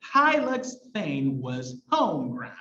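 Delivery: slow recital with a strong beat on "Hylax"; second half-line read slowly, leaning on "Hylax" and "home"; stressed alliterative verse. Shown as a demonstration. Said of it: "alliterates in the second one with Hylax".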